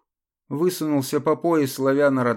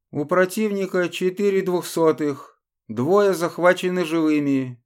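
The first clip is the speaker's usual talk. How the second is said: urgent radio report; 4 semitones higher than usual. Acted. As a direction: report fast under pressure. Belgian reports over radio.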